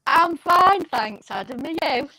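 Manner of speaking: glitchy robotic voice over a bad line; choppy robot-like video call audio. Real, not acted. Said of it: "you sound like a robot all of a sudden".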